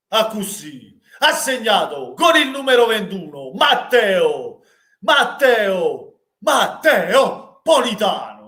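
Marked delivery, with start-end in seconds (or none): 1.2-8.5 a hint of a stadium speaker calling the scorer; stadium announcer. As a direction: stretch out the name, slow and high. (speaker dello stadio)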